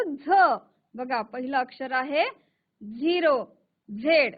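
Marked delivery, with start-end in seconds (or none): 0.0-0.3 झ as the sound of Z, not its name; letter sound. Shown as a demonstration. Teacher showing children the sound of Z, letter sound झ. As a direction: say झ alone as a phonics sound. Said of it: "त्याचा आवाज होतो".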